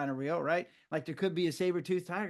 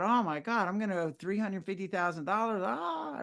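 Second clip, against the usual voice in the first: mock panic; 4 semitones higher than usual. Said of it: "I could have been freaking out".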